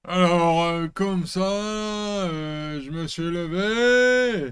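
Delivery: put-on loud, slurred drunk guy voice. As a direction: talk like the town drunk. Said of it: "Je t'ai pas demandé de faire le mec bourré". (voix de mec bourré)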